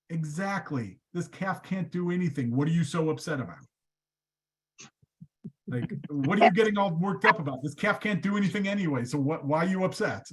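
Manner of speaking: Moses calm and knowing. Retold or imitated. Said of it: "Moses looks at God and goes".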